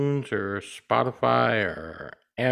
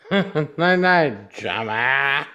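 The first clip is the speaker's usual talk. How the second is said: laughing goodnight; much slower than usual. Real, not acted. Repeats mock goodnight laughing.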